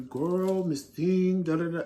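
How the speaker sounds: lightly mock the flamboyant diva act; campy sassy voice. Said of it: "those black men that just came on and was giving you".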